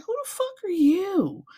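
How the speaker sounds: high indignant yell; mock outrage. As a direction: fire it back sharply. Retold indignant outburst.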